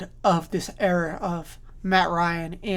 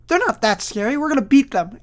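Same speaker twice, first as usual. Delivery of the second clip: higher, louder confident bravado, mocking the Chiefs; a brash teammate boasting, pitched up and loud; cocky rival players; 5 semitones higher, 3 dB louder than usual. Bills players talking themselves up, loud brash bravado. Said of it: "they're gonna be like".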